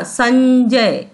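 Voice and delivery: "संजय" slowly, with a long nasal ny before j; through the nose. Shown as a demonstration. Teacher shows the nasal letter, drawn-out "संजय". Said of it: "नाक से निकालेंगे".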